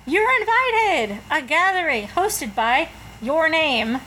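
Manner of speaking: cheery invitation voice. Acted.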